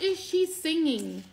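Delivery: high, slow, rising question; reliving the moment she heard singing; amazed wonder. Retold or imitated. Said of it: "But if I'm like".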